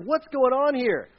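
lightly acted amazement; bewildered crowd. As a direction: play the puzzled listener. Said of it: "they were like".

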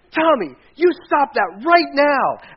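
loud, high, slow parental yell; yelled reprimand. Retold or imitated. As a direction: bellow each word at your son. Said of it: "I mean, I yelled".

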